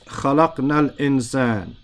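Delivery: the object read with a fatha, quick and fluent; a quick model recitation of the correct vowel; correct Arabic reading. Shown as a demonstration. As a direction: read خَلَقْنَا الْإِنسَانَ rapidly, ending الْإِنسَانَ with a clear fatha. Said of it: "If you understand that this is we created".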